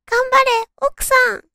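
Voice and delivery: high, loud cheer for the wife. Retold or imitated. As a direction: cheer her on from afar. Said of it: "と応援したくなりました".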